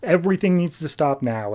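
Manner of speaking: frantic command, only half shouted; retold urgent yelling. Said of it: "He's yelling at Alfred".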